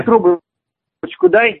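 very slow demand. Real, not acted. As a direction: drag out трубочку дай, very slow. Repeats demand very slowly. (медленно, с нажимом)

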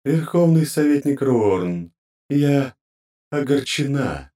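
slow, high, menacing goddess voice; storm brewing menace. Acted. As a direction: let a storm rumble under it. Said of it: "глухой рокот надвигающейся бури".

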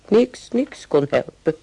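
slow, loud and high, pressing each word; drawn-out cry of helpless exasperation; exasperated outburst. Acted. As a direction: throw up your hands at the memory. Recalling the screaming little brother.

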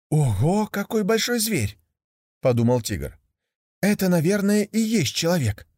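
high, wondering cub; amazed young tiger. Acted. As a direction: gasp at a huge beast.

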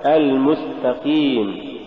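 slow المستقيم with a mild qaf; correct graded qaf. Shown as a demonstration. Teacher gives the correction, slow, mild qaf in المستقيم. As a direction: stretch a clear "ii" in المستقيم. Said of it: "والصواب".

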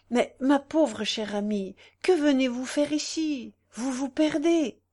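rising, urgent remonstrance; alarmed reproach. A narrator's reading. Man warning his friend she risks ruin, alarmed.

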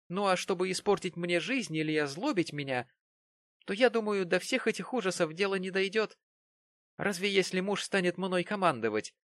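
put-on a coquettish girl teasing. A narrator's reading. Mary voiced in reading.

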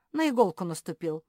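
loud, pained grunt; strained, hurting exclamation. A narrator's reading. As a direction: grunt out the complaint. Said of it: "прокряхтел Ричард".

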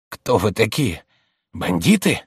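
halting, frightened questions; trembling with fright. Acted. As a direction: stammer it out as if scared. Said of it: "проговорил дрожащим голосом, заикаясь от испуга". (испуганно, дрожащим голосом)

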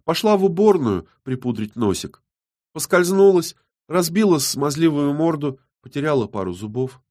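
snide, playful taunt. A narrator's reading. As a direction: report it with malicious glee, pitch lifted. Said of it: "ехидно улыбнулась".

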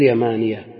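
"يمانية" with long aa and one light ya. Shown as a demonstration. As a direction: do not double the ya in "يمانية". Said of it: "خففت". ("يمانية" بتخفيف الياء)

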